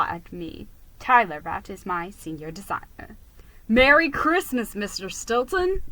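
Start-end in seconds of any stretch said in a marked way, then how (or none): 3.7-5.8 squeak. A narrator's reading. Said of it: "he squeaked".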